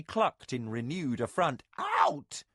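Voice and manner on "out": high, loud shooing cry; loud high nurse's command; cried out. A narrator's reading. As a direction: shoo the men out. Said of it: "she cried".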